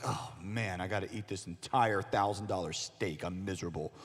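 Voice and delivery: low, mopey mock complaint; mock misery. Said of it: "and be like".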